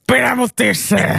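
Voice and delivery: hammed-up plea to a stranger; mock female admirer. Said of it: "se oli tämmönen". (leikillisesti esitetty naisihailija)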